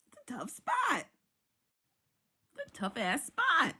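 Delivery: breathy whisper, voice dropped away; whispered aside. Real, not acted. To viewers about the drama, a whispered aside. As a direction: whisper it to yourself. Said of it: "whispered repeat".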